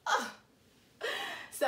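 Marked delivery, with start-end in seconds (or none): 0.1-0.3 short wordless "ugh" of frustration; exasperated grunt. Real, not acted. Fed up with herself for tripping, exasperated grunt. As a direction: let out a brief exasperated ugh.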